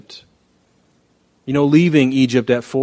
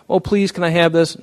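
put-on begging child; 6 semitones higher than usual. Child begs parent.

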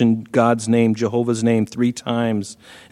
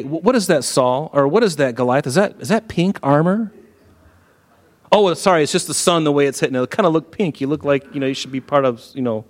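teasing taunt; 2 semitones higher than usual. Acted. David taunting Goliath.

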